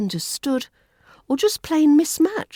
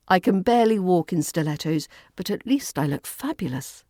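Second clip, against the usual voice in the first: normal talking voice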